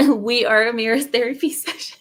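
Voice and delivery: squeaky giggles, can't stop apologizing; laughing fit. Real, not acted. Host cracking up at her own slip, real laughter.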